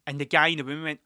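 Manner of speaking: ordinary delivery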